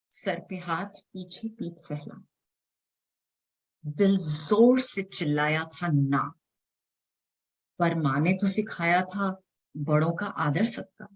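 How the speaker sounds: measured, dramatic spoken-word reading; poem recitation. Acted. Poet reciting her poem to the audience, dramatic spoken word. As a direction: perform the poem line by line, with pauses.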